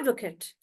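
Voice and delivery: "advocate" with short, small "kut" ending; "advocate" as "AD-vuh-kut"; stress on AD. Shown as a demonstration. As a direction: hit AD, shrink the end of "advocate". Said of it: "like that".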